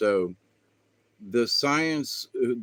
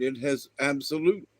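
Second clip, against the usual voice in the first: talking through hiccups; interrupted by a hiccup; 3 semitones higher than usual. Real, not acted. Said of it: "I got the hiccups".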